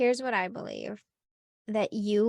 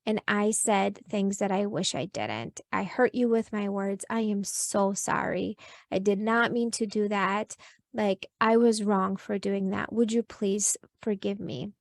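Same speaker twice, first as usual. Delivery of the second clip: gentle apology. Shown as a demonstration. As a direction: apologize tenderly to your kid. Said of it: "go back to your kids and say".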